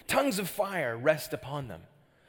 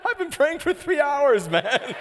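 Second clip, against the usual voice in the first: exasperated thought; 11 semitones higher, 8 dB louder than usual. Retold or imitated. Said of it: "I thought".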